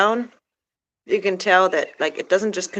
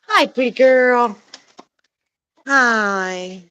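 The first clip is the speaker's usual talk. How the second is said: slow cooing greeting; 4 semitones higher, 4 dB louder, much slower than usual. Real, not acted. Cooing to a hen.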